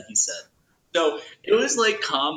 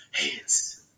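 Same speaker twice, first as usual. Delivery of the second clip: radio DJ voice; 3 semitones lower than usual. Retold or imitated. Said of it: "could you do it real quick?".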